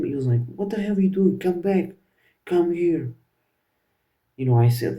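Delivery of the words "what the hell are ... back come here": higher, louder, a hammed-up scolding father; mock angry dad yell. Dad catching his son on a call, mock furious. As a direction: bark it like a fed-up dad calling his son.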